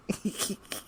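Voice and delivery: hushed, voiceless wheezing laugh; imitated howling laugh. Recalling the angry man against the wall, wheezy imitated howling.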